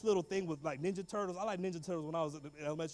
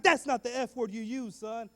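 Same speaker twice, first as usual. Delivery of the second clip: slow, louder mock rebuke; scolding principal; 3 semitones higher, 5 dB louder, slower than usual. Principal to lying pupil, slow mild scolding. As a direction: correct the boy slowly and firmly.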